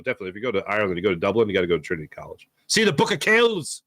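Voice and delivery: put-on a so-so Irish accent that drifts Scottish; lightly voiced Irish tour-guide accent; attempted Irish accent. Recommending Trinity College to viewers in a put-on Irish accent. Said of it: "That was more of a Scottish accent".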